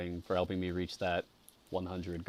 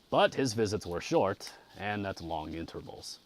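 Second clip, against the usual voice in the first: measured audiobook reading; story narration. A narrator's reading. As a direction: read a classic novel aloud with care. Reads the novel aloud.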